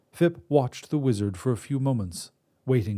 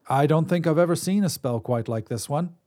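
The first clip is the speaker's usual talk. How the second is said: conversational; 5 semitones higher than usual. Acted. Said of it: "he said conversationally".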